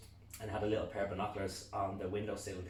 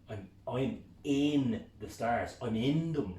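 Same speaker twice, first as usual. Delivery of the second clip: slow, louder ecstatic; rapturous; 3 semitones higher, 6 dB louder, much slower than usual. Retold or imitated. Telling the lads, rapturous. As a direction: savour every word.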